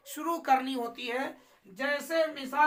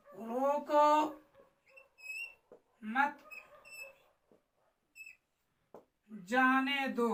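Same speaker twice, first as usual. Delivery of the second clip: "रोको", "मत", "जाने दो" separated by very long pauses; word by word; 3 dB quieter, much slower than usual. Shown as a demonstration. Teacher writing the example word, spaced out with long pauses. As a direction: dictate it with long gaps after "रोको" and after "मत". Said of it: "जैसे कि मैंने यहाँ एक लफ्ज लिखा".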